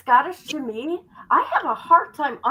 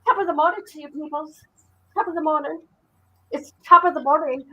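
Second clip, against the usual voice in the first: higher, sing-song mock Irish greeting; 4 semitones higher, faster than usual. Greeting her viewers with a playful Irish accent. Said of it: "old-fashioned Irish greeting".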